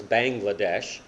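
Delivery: "Bangladesh" with first syllable like English "bang"; common mispronunciation. Shown as a demonstration. Preacher showing how everyone tries to say Bangladesh, mispronounced with "bang". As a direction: say "Bangladesh" as BANG-gla-desh. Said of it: "everyone tries to pronounce as".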